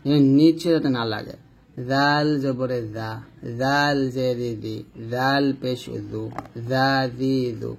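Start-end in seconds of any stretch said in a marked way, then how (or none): 1.9-7.7 slow recited "জাল" with a soft th-like z; tongue tip on upper teeth for "জা, জি, জু"; drawn-out, light "জাল"; soft, thin "জাল". Shown as a demonstration. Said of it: "এরকম আমরা পাতলা উচ্চারণ করবো".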